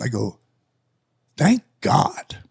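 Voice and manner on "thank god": relieved whisper under the breath. Retold or imitated. To the young wrestler who just lost, a whisper.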